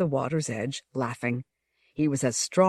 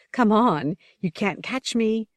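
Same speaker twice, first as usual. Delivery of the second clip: taunting shout; 6 semitones higher than usual. A narrator's reading. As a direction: dare him to chase her. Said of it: "she shouted".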